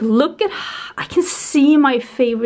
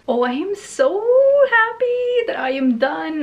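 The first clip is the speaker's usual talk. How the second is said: excited; 8 semitones higher than usual. Real, not acted. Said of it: "I'm so excited that I'm done".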